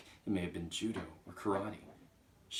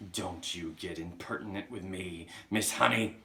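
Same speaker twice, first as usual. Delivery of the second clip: snapping; 5 dB louder than usual. Acted. Trunchbull warning Miss Honey about impertinence, snapping. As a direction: warn sharply, louder at the end. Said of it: "the Trunchbull snapped".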